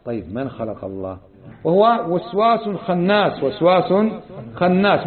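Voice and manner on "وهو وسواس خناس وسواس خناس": slow, drawn-out وسواس خناس with a pause between the words; stress on وسواس خناس. Shown as a demonstration. Preacher explaining the devil's name to listeners, slow and weighed. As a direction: spell out وسواس then خناس, each weighed. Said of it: "معنى وسواس".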